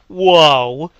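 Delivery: loud, high stunned whoa; shocked exclamation. Retold or imitated. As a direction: shout it in disbelief. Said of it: "I'm just like".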